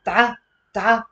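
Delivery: Ta-, ta said quickly back to back; fast syllable drill. Shown as a demonstration. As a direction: snap through Ta-, ta fast. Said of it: "Say with me fast".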